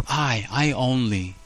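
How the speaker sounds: slow, leaning on I and only; emphatic I only. Retold or imitated. Elijah insisting he alone is left, emphatic. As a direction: press the I only. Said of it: "It's very emphatic".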